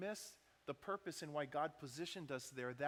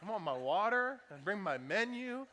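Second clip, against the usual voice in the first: mildly mad, raised demanding voice; retold impatience, pitched up a little; irritated; 3 semitones higher, 4 dB louder than usual. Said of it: "but we're getting mad".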